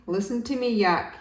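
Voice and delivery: moaning. Acted. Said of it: "he moaned".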